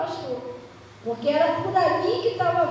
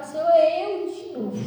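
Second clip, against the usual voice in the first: louder, livelier acted prayer; insistent petition; 3 semitones higher, 6 dB louder than usual. Believer coming back to the Lord yet again, insistent petition. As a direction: announce yourself boldly to God.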